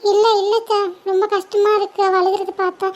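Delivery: choked-up, tearful explanation. Acted. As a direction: explain through tears to your aunt. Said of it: "நீங்களே அழுதுட்டு இருக்கீங்க". (அழுகையை அடக்கியபடி)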